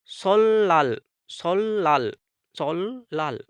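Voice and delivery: सोल लाल repeated slowly with a doubled l; सोल लाल, stretching the double l; Korean pronunciation drill. Shown as a demonstration. Teacher drills students on सोल लाल, the n becoming l. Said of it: "इसको पढ़ेंगे".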